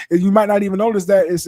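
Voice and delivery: a touch of preaching. Real, not acted. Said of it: "she's starting to preach too".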